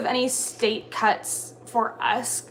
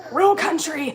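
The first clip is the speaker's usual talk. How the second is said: higher-pitched, exaggerated Southern country twang; country accent; 7 semitones higher, 3 dB louder, slower than usual. Shown as a demonstration. Kat showing viewers how country she gets, exaggerated Southern accent. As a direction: lean hard into an Alabama country accent. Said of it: "Then I'm real, real country, like".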